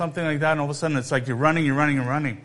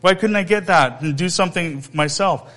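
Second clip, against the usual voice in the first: entitled whine; 3 semitones higher than usual. Acted. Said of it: "He felt very entitled".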